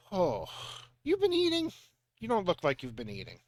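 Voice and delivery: put-on a light Eastern European mother's accent, fussing; a doting mother, lightly accented, fussing over thinness. Mother looks her son over and fusses, in a light Eastern European accent. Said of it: "What is this accent I'm doing?".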